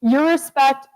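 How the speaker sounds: excited cheer. Real, not acted. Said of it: "celebrate, guys".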